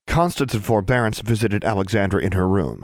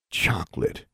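"Chocolate" repeated softer and deadpan; flat disbelief; 2 semitones higher, 5 dB quieter than usual. A narrator's reading. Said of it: "he repeated".

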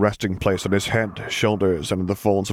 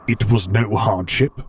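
slow, a little louder, rumbling; rumbling Vader; 3 dB louder, slower than usual. Acted. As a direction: let it rumble out steady and slow. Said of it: "Vader rumbled back".

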